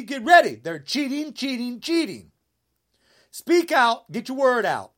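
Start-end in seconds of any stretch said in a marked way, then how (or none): 0.0-0.6 louder, falling get ready that lands hard; a firm closing call to get ready; emphatic call. Real, not acted. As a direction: bang it out as a final warning. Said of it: "repeated rallying call".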